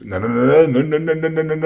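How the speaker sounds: loud, rising string of no's; emphatic no. Real, not acted. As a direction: stop her mistake at once, loudly. Student starts the combination wrong.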